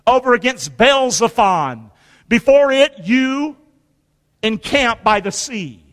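slow, weighty Bible reading; scripture reading. Acted. Preacher reading Exodus to his church, measured and solemn. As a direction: read the Word with weight.

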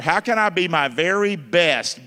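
measured sermon delivery; preaching. Acted. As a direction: preach it to the congregation. Preaching the acronym.

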